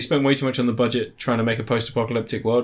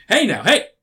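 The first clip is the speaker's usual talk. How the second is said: high, louder mock-American protest; American accent; 9 semitones higher, 4 dB louder than usual. American guy calming the woman who accuses him, put-on American accent. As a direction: imitate an American cutting in to calm someone. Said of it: "he plays an American guy".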